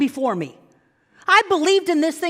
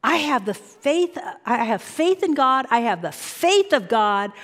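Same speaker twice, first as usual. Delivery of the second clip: affirmation demo; 2 semitones lower than usual. Shown as a demonstration. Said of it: "say to yourself".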